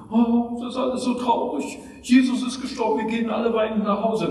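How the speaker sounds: a touch of fake grief, rushed; mock weepy lament. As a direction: mockingly play the sob-story sermon. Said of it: "nicht auf die Tränendrüse".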